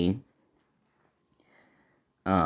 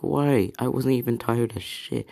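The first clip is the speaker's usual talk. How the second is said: surprised; 5 semitones higher than usual. Acted. Asta confused after collapsing.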